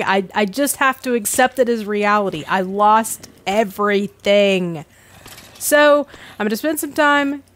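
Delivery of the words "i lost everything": mock despair. Accepting loss, drawn out.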